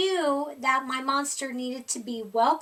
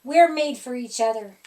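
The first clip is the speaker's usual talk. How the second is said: growling monster; 8 dB louder than usual. A narrator's reading. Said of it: "he growled".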